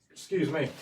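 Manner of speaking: hiccuping mid-phrase; hiccups. Real, not acted. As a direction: talk through a hiccup. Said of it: "I've got hiccups".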